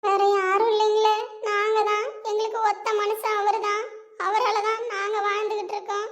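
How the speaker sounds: begging with rising distress; tearful pleading. Acted. Wife pleads with doctor. (மருத்துவரிடம் கண்ணீருடன் கெஞ்சல்)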